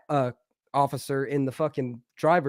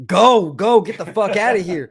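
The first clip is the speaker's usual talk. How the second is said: loud, raised-pitch panicked urging; urgent yelling; 3 semitones higher, 7 dB louder than usual. Retold or imitated. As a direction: yell it like friends urging a getaway. Friends urge him to flee.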